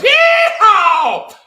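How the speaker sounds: a huge, high, shouted Southern yeehaw. Acted. Reading the story in a bad Southern accent, he whoops a loud yeehaw. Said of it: "an even shittier Southern accent".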